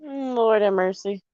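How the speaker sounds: slow, low Lord have mercy; a long tired sigh of Lord have mercy; weary exasperation. Real, not acted. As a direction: drag it out like you've given up. Exasperated aside after laughing.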